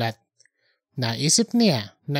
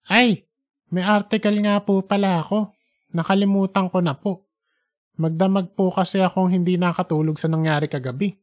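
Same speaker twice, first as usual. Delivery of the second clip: sudden remembering; 2 semitones higher than usual. Acted. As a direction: caught off guard, then sheepish. (nagulat na naalala)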